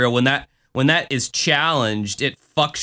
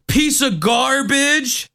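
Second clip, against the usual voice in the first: TV-style swearing; 11 semitones higher, much slower than usual. Retold or imitated. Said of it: "the P G swearing of Unsolved Mysteries".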